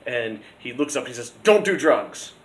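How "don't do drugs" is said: louder, higher imitation of a teacher; mock warning. Physics teacher looks up at students talking about drugs, loud mock warning. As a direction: call out a joking admonishment, imitating the teacher.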